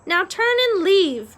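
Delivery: high, loud "Now turn and leave"; loud parroted order. A narrator's reading. Meg wrongly echoes instruction to chef.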